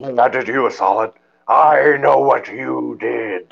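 drawn-out, hammed-up Futurama-style president; Nixon. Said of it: "doing an impression of Futurama, doing an impression of Nixon".

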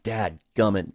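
mildly frustrated mock outburst; lightly re-enacted burst of annoyance; retold frustration. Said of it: "But I'm frustrated. I'm like".

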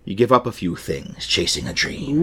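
lightly voiced pirate; a hint of wistful sea dog. Pirate reflecting on chasing a dream, pirate voice. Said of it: "I'm gonna do a pirate voice".

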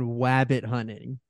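"wabbit hunting" with a W for the R in rabbit; quoted wabbit pronunciation. Retold or imitated. Co-host quoting the commentator's funny line, "wabbit" with a W. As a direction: say "wabbit" with a cartoon-hunter W in place of R. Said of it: "Michael Cole said that Damian Priest was going".

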